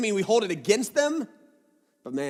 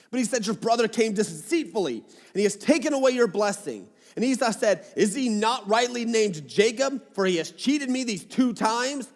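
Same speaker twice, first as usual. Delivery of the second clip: raised, higher-pitched Bible reading; scripture reading; 4 semitones higher than usual. Acted. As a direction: read the passage out clearly to the room. Reads scripture aloud to the congregation.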